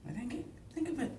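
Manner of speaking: frustrated whine. Real, not acted. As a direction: whine it out, exasperated. Stumped friend repeating in frustration.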